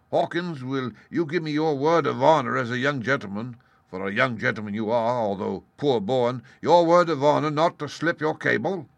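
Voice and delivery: hearty pirate talk, humbly persuasive; wily pirate leader, ingratiating. Acted. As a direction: wheedle like a crafty old sea cook. Voices Silver, the pirate leader.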